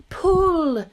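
loud, high, drawn-out shout; high rallying yell; shouted command. Acted. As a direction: bellow it out to the whole crew. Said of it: "shouted the old green grasshopper".

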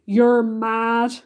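loud, mildly outraged cry. A narrator's reading. Earthworm objecting to James's plan, loud cry. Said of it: "cried the earthworm".

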